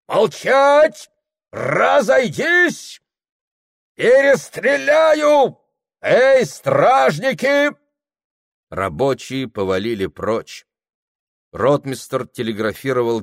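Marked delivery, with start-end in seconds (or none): 0.1-7.7 very high, loud, slow bellowed orders; furious commands. Acted. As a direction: threaten to shoot.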